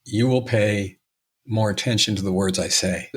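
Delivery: a hint of a man making you lean in to hear him; imitating Robert. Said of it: "Robert would do this".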